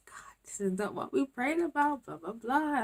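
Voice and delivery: high, plaintive protest; acted-out grumbling prayer; mock complaint to God. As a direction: whine it like a let-down petitioner. Acts out her complaint to God.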